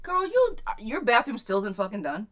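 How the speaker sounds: mock-scold a friend about her bathroom; playful outcry. Real, not acted. Teasing a viewer about her unfinished bathroom, loud playful outcry.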